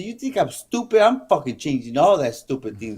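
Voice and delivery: mock outrage; retold anger. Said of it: "she was so mad".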